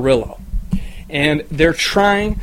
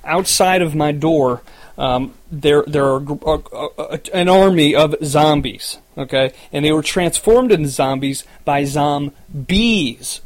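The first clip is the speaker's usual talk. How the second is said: crackly lonely radio dj. Acted. Radio DJ broadcast opening.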